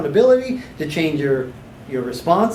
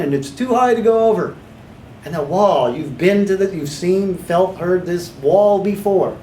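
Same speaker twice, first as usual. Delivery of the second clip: guided visualization; 3 semitones higher than usual. Shown as a demonstration. Hypnotherapist demos guided wall visualization.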